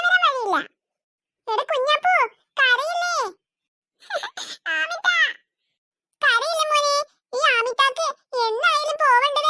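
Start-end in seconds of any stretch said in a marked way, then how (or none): 4.8-5.1 tearful cry of a name, rising at the end; a child sobbing out a name; crying call. Acted. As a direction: call her name through sobs. Children crying over the missing baby.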